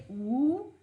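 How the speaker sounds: very slow, joining letters into उद्याने; slow classroom spelling; slow syllable building. Shown as a demonstration. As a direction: spell it out piece by piece for beginners. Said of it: "इसी प्रकार बनेंगे".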